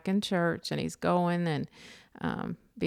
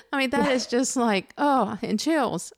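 moved; 4 semitones higher than usual. Real, not acted. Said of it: "I got tears in my eyes".

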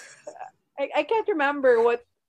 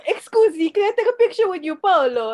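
quick, higher-pitched fan asking a favour; gushing fan; 5 semitones higher than usual. Retold or imitated. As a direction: imitate an excited fan, hurried. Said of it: "that's how they would say his name".

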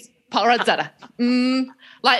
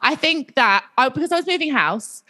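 put-on talking voice; 3 semitones higher than usual. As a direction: lightly put on a careful storytelling voice. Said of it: "I'm going to talk like this".

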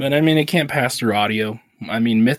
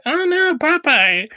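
high laughing cry; 4 dB louder, slower than usual. Real, not acted.

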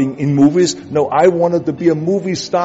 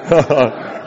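mocking laugh. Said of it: "their reaction was".

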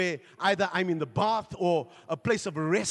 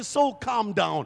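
slow calming; 4 dB louder, much slower than usual. Acted. Preacher voicing talk to soul.

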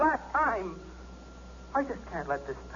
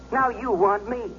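bitter anger; 4 semitones higher, slower than usual. Acted. Bitter husband confronting wife.

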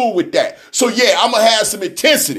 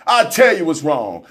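usual speaking voice

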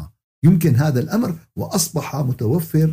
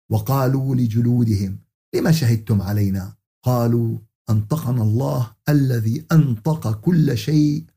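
measured formal Quranic verse reading; spoken scripture, slightly lowered pitch; Quran recitation; 4 semitones lower than usual. Acted. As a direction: recite the verse solemnly in classical Arabic.

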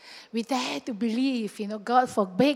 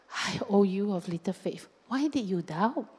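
lower, softly disappointed question; gentle parental reproach; 3 semitones lower, 3 dB quieter than usual. Acted. Jesus looking Peter in the eyes, gentle reproach. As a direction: chide gently, like a parent to a child. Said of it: "Like a father or a mother would look at the child".

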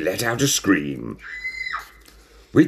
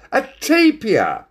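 high, loud exclamation; surprised; 5 dB louder, slower than usual. A narrator's reading. Cat discovers a strange animal, amazed.

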